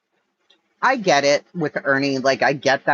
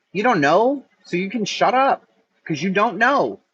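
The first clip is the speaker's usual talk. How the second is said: raised, heated telling-off; angry; 4 semitones higher than usual. Real, not acted. Answering Brooke's claim, heated and raised. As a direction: put her firmly in her place.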